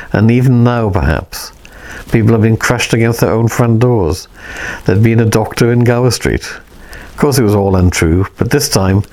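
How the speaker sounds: put-on measured read-aloud of an old novel; story narration. A narrator's reading. Reader narrating War in Heaven to listeners, in a steady read-aloud voice.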